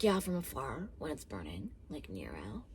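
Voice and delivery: very low, hushed imitation fading into whisper; mock pretentious murmur. Mimicking the heroine's reply to Mister Miller, mock hushed murmur. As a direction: imitate her softly, sinking to a whisper.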